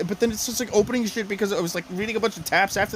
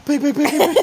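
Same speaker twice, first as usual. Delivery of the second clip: high, louder repeated beeps; rapid pitched-up beeps; imitated beeping; 9 semitones higher, 7 dB louder, faster than usual. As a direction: mimic an electronic beep.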